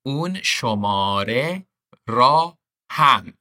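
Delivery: اون شماره را هم said in full, slowly; slow careful full form. Shown as a demonstration. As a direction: spell out اون شماره را هم word by word. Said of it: "which basically is".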